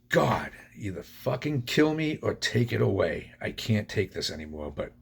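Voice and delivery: a held-back reenactment of screaming desperation; retold desperate scream. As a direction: cry out to God in mock scream. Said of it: "screaming at the top of my, my lungs".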